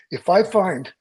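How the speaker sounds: mock threat, dragging out the punchline; imitating a threat. Jim warns the crew member about the balloon prank, menacing.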